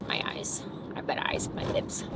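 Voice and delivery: whispered aside to herself; soft unvoiced whisper. Real, not acted. Muttering to herself while icing.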